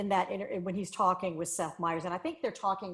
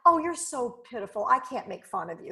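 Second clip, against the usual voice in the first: pitying tone, higher and louder, slightly hammed; mock pity; 4 semitones higher, 4 dB louder than usual. Imitating people who pity a group, in a condescending voice. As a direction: coo it like talking down to someone helpless. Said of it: "you're going".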